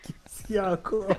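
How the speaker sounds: hushed, exasperated whisper; whispered aside. Real, not acted. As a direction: breathe it under your breath. Exasperated aside after a joke.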